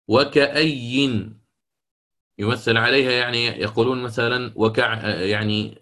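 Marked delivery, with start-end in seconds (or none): 0.1-1.3 وكأي said very slowly with nun; slow model. Shown as a demonstration. Teacher repeating the word slowly for the class. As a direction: linger over each sound of وكأي. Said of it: "يعني، أصلها أي".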